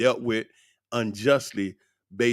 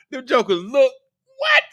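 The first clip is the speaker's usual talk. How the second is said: laughing through words; 13 semitones higher, 6 dB louder than usual. Real, not acted. Still laughing while telling it.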